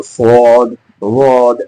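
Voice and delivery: स्वाद and वाद pushed down with a put-on heavy voice; forced heavy voice. Shown as a demonstration. Teacher showing students the wrong, put-on heavy voice. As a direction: fake the heaviness on स्वाद and वाद. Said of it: "ऐसे नहीं करना".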